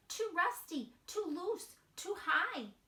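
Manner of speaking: put-on high small child voice; little mouse voice. Wemberly peeking at her parents, high and timid. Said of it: "she's saying".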